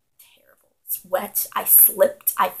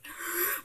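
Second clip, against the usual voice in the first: panicked gasp; 10 semitones higher, 8 dB quieter than usual. Retold or imitated. Retold panic at hurt hands.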